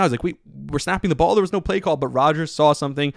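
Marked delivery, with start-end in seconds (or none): 0.2-2.0 mock panicked, a bit higher; freaking out. Hackett panicking with no play called, mild mock alarm. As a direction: play the coach's alarmed disbelief lightly. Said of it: "Hackett was freaking out".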